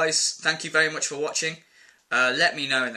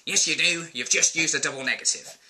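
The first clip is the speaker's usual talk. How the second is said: smug correction. Retold or imitated. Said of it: "and Moz goes".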